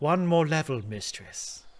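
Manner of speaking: wise, measured, slow, sagely robot voice. Voicing the robot in a game, answering how much higher: sagely robot voice. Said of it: "How about that for a robot voice?".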